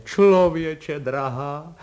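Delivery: high, exuberant torrent of mock insults; joyful outcry. A narrator's reading. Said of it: "vykřikl pan Kolbaba radostně".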